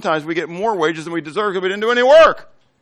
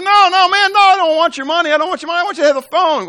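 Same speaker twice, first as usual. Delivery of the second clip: much higher, louder pleading no; insistent refusal; 6 dB louder, faster than usual. Retold or imitated. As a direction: push the money away, loud and high. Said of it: "I said".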